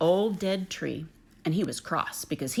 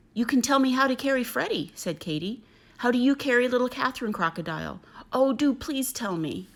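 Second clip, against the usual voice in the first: higher, louder pleading, slowing at the end; eager pleading Katie; 6 semitones higher, 3 dB louder than usual. Acted. Kangaroo mother pleading with the crocodile, eager and high. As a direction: beg her sweetly and insistently.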